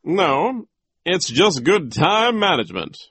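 high, loud teacher's rebuttal; emphatic disagreement; arguing back. A narrator's reading. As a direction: argue the point firmly. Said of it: "Mister Remora argued".

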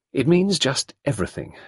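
put-on a flustered young woman confessing; embarrassed young woman recalling; Sarah, young woman. A narrator's reading.

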